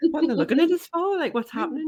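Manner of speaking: high, fast, laughing through it; laughing mock alarm. Mocking her own fright at friendly locals, laughing. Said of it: "I'm like".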